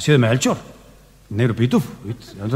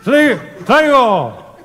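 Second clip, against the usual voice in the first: very slow, high stammer; stammering kid; 7 semitones higher, slower than usual. Retold or imitated. Gaspar forgetting the line, high slow stammer. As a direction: stumble over every word. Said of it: "se acomodó y dice".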